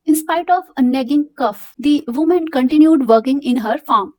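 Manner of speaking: slow, careful reading to a class; measured textbook reading; slow read-aloud. Acted. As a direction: read it out slowly for students. Teacher reads story aloud.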